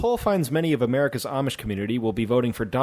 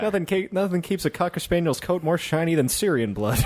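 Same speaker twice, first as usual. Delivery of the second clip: 1940s voice; 4 semitones higher than usual. Acted. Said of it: "Why were we all doing nineteen forties voice?".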